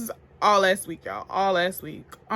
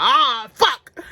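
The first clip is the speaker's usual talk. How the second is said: startled curse; 5 semitones higher, 7 dB louder than usual. Retold or imitated. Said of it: "I was like".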